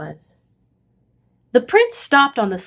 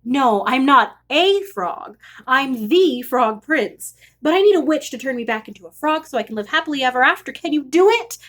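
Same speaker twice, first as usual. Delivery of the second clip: rushed breathless run-on, fast on the long line; one long breath; 3 semitones higher than usual. Acted. The prince rushing his plea to the witch, breathless. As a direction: gabble it all out without a breath. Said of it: "said the prince in one long breath".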